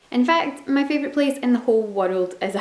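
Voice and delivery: ordinary delivery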